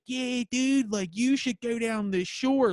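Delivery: mock Philly accent. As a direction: imitate TV comics hamming up a Philly accent. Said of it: "she does the Delco accent".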